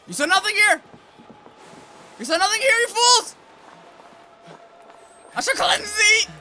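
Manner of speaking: loud high theatrical taunt; booming mock villain. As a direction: shout it like a grand villain. Taunting enemies in game.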